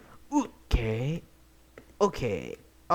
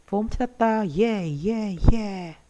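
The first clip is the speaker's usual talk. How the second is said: excited; 7 semitones higher, 4 dB louder than usual. Real, not acted. Celebrating the treasure.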